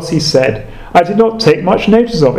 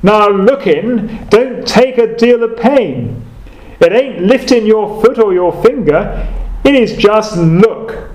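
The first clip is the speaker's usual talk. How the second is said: put-on broad Essex accent; 4 semitones higher than usual. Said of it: "in his broad Essex accent".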